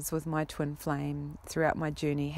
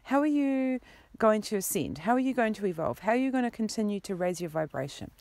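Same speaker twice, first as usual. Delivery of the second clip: higher, fast nagging; hassling nag; 5 semitones higher, faster than usual. Retold or imitated. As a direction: rattle off every broken promise. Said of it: "hassling you".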